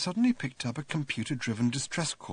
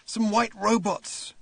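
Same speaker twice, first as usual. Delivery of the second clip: hoarse whisper; 10 semitones higher, 4 dB louder, slower than usual. A narrator's reading. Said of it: "whispered the man hoarsely".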